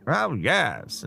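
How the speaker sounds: a quick mock posh transatlantic "Oh, yes"; Fairbanks's posh accent. Host imitating the star's accent again, mildly posh. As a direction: toss off a plummy aside in imitation. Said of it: "the accent".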